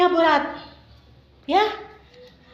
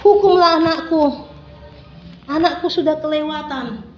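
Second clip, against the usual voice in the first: tearful prayer. Acted. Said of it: "Ibunya sudah menangis".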